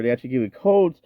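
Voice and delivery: talking through hiccups; words broken by a hiccup. Real, not acted. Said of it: "Ooh, excuse me, I'm hiccuping".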